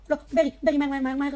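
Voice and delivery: loud, high frantic urging; urgent shout. Real, not acted. Player yelling at companion Berry to hurry, frantic.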